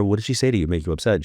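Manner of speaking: rattled off fast, pushing past her answer; impatient rapid repeat of the question. Retold or imitated. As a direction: hurry the question, insisting. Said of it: "Yeah, I don't care".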